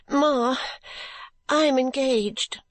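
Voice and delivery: put-on a girl blurting out her news through tears; crying heartily. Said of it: "crying heartily".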